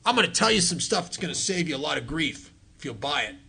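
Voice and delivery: put-on a gruff old-timer's voice; rough, blunt old-timer advice. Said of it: "this is a gruff voice".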